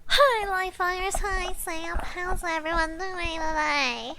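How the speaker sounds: high, slow, drawn-out hello; singsong greeting. Pretend.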